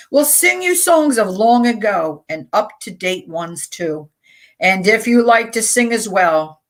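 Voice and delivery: lively, rhythmic recital; sing-song spoken-word reading; poem reading. Acted. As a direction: read it like an upbeat welcome verse. Reads a poem aloud.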